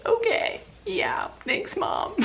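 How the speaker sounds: mock-tearful thanks to mom, very high and soft; tearful little voice. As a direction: squeak it out like a crying kid. Retelling her tearful reply to mom.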